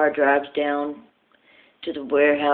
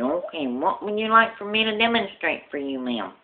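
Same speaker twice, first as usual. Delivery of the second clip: lisping salesman; 2 semitones higher than usual. Acted. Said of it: "he talks with a lisp".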